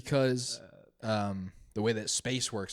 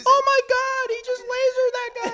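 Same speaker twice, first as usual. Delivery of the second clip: very high, loud shocked cry; 8 dB louder than usual. Acted. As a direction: gasp in disbelief. Bystander shocked, laughing.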